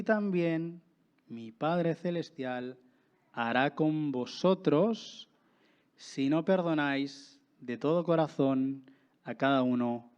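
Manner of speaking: measured reading of the Bible passage; scripture reading. Acted. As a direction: read the verses aloud to the church. Reads the parable aloud. (lectura bíblica pausada ante la iglesia)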